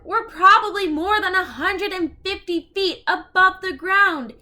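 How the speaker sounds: put-on high, loud alarmed boy voice; frightened boy. Jack telling Annie how high up they are, high frightened voice. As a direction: sound scared of the drop. Jack panicked about height.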